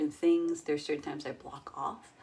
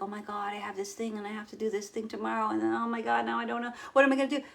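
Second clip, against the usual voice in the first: mock panicked worrier; 4 semitones higher, 4 dB louder, faster than usual. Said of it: "the non-believer's voice".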